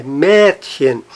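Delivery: "Mädchen" with the weight on MÄD; stress on MÄD. Shown as a demonstration. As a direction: let chen fall away in "Mädchen". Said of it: "sim no me".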